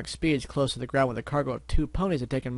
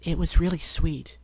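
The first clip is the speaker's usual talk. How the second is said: soothing; 4 semitones higher, 3 dB louder, slower than usual. Acted. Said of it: "Grassy Gray soothed".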